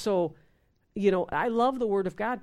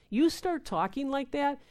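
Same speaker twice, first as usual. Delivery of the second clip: usual speaking voice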